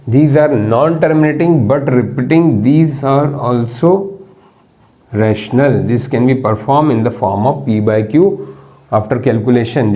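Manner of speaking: reads the definition out word by word, very slow; slow dictating teacher; slow dictation. Shown as a demonstration. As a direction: dictate it so students can write.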